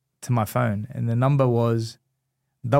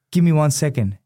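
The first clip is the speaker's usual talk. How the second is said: flustered excitement; 4 semitones higher, 4 dB louder than usual. Retold or imitated. Overwhelmed fan on the phone.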